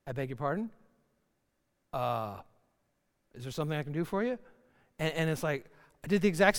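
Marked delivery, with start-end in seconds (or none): 0.1-4.4 mock-prim, icy and clipped; prim offended wife. Wife turns around, mildly offended by her husband's pat. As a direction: play the affronted wife, lightly. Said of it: "she's like".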